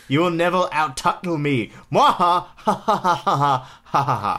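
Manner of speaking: lightly voiced gloating villain; a hint of villain cackle, mock menace; mustache twirling villain.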